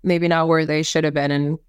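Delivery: stuffy nose from a cold; congested. Real, not acted. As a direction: talk through a blocked nose. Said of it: "I sound a little congested today".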